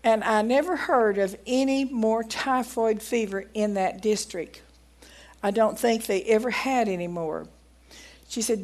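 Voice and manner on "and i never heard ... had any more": measured, emphatic reading of an account; reading aloud. Acted. Preacher reading a doctor's testimony to the congregation, deliberate read-aloud.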